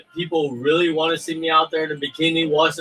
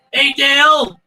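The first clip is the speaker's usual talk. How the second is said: high, loud Southern holler; deep south accent; 10 semitones higher, 6 dB louder, slower than usual. Retold or imitated. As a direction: call out in a hammed-up Southern drawl. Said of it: "Brad Pitt had a Southern accent".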